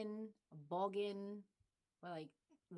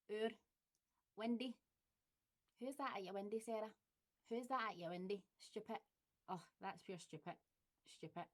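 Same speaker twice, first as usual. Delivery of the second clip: Glaswegian; 4 dB quieter than usual. Shown as a demonstration. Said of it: "accent tag word demo".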